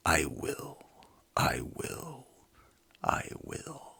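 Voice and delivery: lively read-aloud storybook voice; animated storyteller; story narration. A narrator's reading. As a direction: read it like a children's book. Reads children's book aloud.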